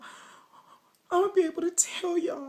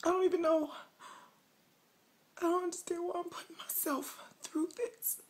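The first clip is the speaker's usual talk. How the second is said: snotty crying. Pretend. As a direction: fake sobbing, whispery and shaky. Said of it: "Y'all thought I was crying. Not".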